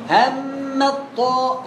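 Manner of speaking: الطاء very slow with a quick ت before it; faulty reading demo. Shown as a demonstration. Teacher repeats the mistake before calling it wrong, slow demo. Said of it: "غلط، وقف".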